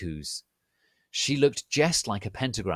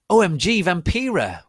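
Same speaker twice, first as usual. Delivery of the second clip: much higher, loud squeal of joy; excited yell; 11 semitones higher, 12 dB louder than usual. Acted. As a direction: shriek the greeting with delight. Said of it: "I yielded".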